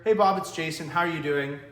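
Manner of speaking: loud, friendly call opener; upbeat greeting. Shown as a demonstration. Salesman demoing the call opening, loud and friendly. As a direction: greet him like an old pal. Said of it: "the call goes a little bit like this".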